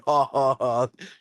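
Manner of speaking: mock hearty belly laugh; put-on deep laugh; imitated deep laugh. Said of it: "that deep laugh".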